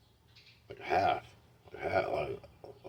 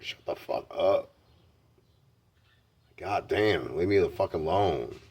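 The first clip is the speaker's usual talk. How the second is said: a slow, loud yell; retold angry yell; 3 semitones higher, 6 dB louder, slower than usual. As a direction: bark it at your mom like a teenager. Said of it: "I would say shit like that to my mom".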